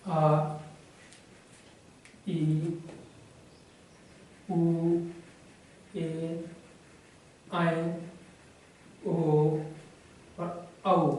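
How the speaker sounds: soft, held आ, ई, ए, ओ; long vowels. Shown as a demonstration. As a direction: draw out आ, ई, ए, ओ, each on its own. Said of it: "जिसका अधिक समय लगता है".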